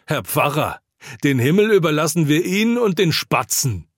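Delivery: high-pitched jeering cry, mildly shrill; mild shriek. A narrator's reading. Woman at the drinking party taunts the pastor, mildly shrieking. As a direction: cry it out high, without full screaming. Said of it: "kreischend schreit eine Frau".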